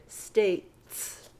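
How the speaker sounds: "states" ending in a tight T-S; ts cluster. Shown as a demonstration. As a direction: stress the joined TS in "states". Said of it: "the T and the S together".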